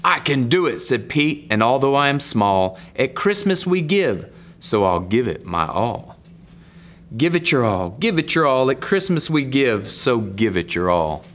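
sing-song rhyme, lifting then dropping at the end; story narration. Acted. Reader voices Pete's pledge to give his all, sing-song storytelling. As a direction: lean into the bouncy refrain. Reads rhyming story and refrain.

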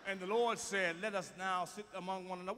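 quiet, measured scripture reading; normal Bible reading. Shown as a demonstration. Showing ministers how to read the Bible, normal reading voice. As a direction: read it out simply and calmly. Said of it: "read the Bible like normal people".

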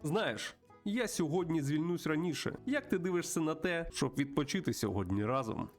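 put-on high, lively voice greeting an old pal; chatty old friend. Plays the friend character in dialogue.

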